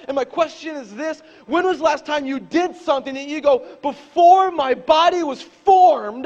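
loud, high, impassioned preaching; preaching at full force. Acted. Pastor preaching hard to his church, loud and rising. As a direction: drive the scripture home to the crowd.

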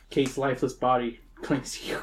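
hushed grim whisper. Acted. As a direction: breathe the words out.

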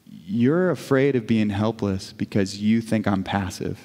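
low, slow, tender; gentle retold reply. God speaks to the wife about her fear, gently.

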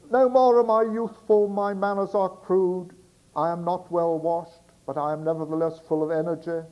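put-on loud, bellowing old sailor; Barnacle Bill voice. Sailor outside the door bellows to the girl, loud sailor shout. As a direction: shout it up from the street like a rough seaman. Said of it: "the Barnacle Bill voice for Barnacle Bill".

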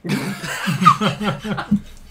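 evil chuckle. Pretend. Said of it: "Your talent is wasted, Mike".

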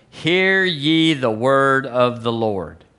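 slow, stretched scripture declaration; solemn proclamation. Acted. Preacher leads the church in saying Jesus' words, solemnly proclaimed. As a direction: lead a congregation in a drawn-out recitation.

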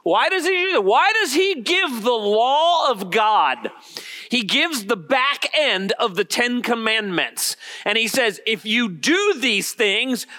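slow, high-pitched rhetorical questioning; emphatic preaching. Real, not acted. Preacher asking why Jesus gives the law, emphatic. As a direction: drive each phrase home to the congregation.

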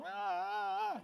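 high, drawn-out "ahh" of the balking flesh; mock wail, held long; imitated wail of protest. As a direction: let out a high, complaining moan. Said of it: "and my flesh is going".

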